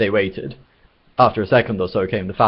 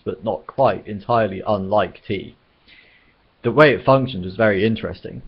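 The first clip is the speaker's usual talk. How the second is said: measured, clearly projected audiobook reading; narrating a comic novel aloud; story narration. A narrator's reading. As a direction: read it out as a wry storyteller.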